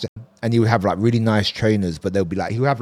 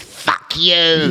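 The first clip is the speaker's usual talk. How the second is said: raised, venomous outburst in imitation; demeanor switched; 5 semitones higher than usual. Exposed old hustler turns on the man, mock angry outburst. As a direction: drop the polite act and curse, pitched up. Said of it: "his whole demeanor switched".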